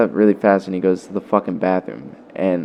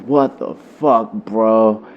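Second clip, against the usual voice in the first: put-on South African accent; 3 semitones higher, much slower than usual. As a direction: mimic a friend's South African accent, drawn out. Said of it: "in his, like, South African accent".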